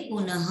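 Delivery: पुनः with a clear final "ha"; visarga as H. Shown as a demonstration. Teacher answers her own question, पुनः ending in "ha". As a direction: end पुनः on an audible "h". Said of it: "मतलब विसर्ग की ध्वनि आई".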